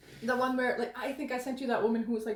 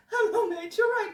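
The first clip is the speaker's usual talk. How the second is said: high, louder mock British greeting; British bar mate; 8 semitones higher, 6 dB louder than usual. Impersonating the British guy greeting someone at a bar, mock British. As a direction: hail a mate in a put-on British accent. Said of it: "British guy".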